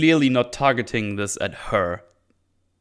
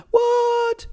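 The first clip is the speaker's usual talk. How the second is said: a sudden gasp jumping up into a disbelieving what; shocked gasp. Retold or imitated. Daughter shocked by her father's warning, gasping high.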